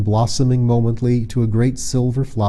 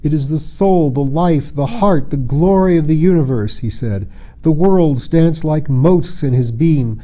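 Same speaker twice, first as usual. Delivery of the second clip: put-on a young man's rapturous hymn to the sun; rhapsodic; 4 semitones higher than usual. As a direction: sing the sun's praises. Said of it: "broke into a rhapsody".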